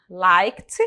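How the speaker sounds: "liked" ending in a T sound; teacher showing the T ending of "liked"; final T sound. Shown as a demonstration. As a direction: say "liked" as "likt". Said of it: "Aquele sonzinho diferente que eu falei".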